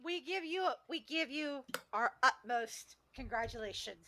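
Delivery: slow, mock-ceremonial congratulations; mock solemn. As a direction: present it like a pompous award.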